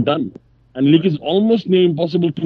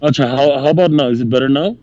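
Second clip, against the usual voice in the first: glitchy robotic connection; robotic, distorted call audio. Real, not acted. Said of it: "you sound like a robot".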